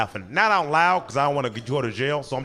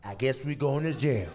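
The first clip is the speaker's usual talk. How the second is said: put-on drunk mumble; 5 dB quieter than usual. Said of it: "he goes".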